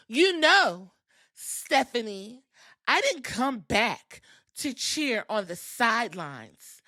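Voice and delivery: mock dramatic promo with long pauses between phrases; imitating Nikki's promo. Nikki confronting Stephanie after attacking her, mildly hammed-up promo delivery. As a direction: imitate a wrestler's halting, punched-out declaration. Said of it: "She said it like that".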